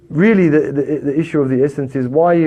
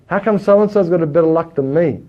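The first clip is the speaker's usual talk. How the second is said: lightly voiced self-pitying moan; mock complainer; 5 semitones higher than usual. Preacher mimics a jealous complainer, light mock moan. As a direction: mimic someone moaning about bad luck. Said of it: "how about this one?".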